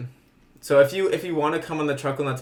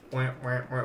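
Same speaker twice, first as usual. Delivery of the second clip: duck quack; 6 semitones lower, 11 dB quieter than usual. Shown as a demonstration. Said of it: "three duck quack sound effects".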